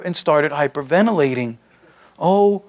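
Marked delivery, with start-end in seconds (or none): 2.2-2.6 wailing. Acted. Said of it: "she wailed".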